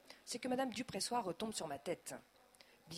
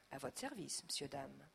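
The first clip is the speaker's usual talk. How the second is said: polite tone; 6 semitones lower, 6 dB quieter than usual. A narrator's reading. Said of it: "d'un ton poli".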